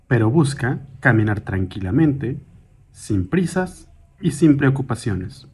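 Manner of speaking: calm, measured meditation guide, slightly softened; guided meditation. Acted. Guide leading a listener through a mindful walk, calm guided meditation. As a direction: guide them gently through each step, with long pauses.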